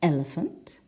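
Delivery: "elephant" stressed on the first syllable, rising at the end. Shown as a demonstration. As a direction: lean on the opening of "elephant". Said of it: "the first syllable".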